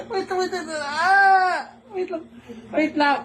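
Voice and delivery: laughing, squealing wait wait; squealing giggles under tickling; being tickled. Real, not acted. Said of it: "Nakikiliti ako".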